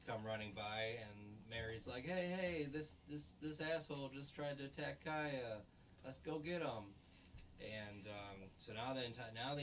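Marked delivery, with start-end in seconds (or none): 2.1-6.9 a retold rabble-rouser yelling the town into action; hammed-up mob-leader cry; mock rallying shout. Rallying villagers against him.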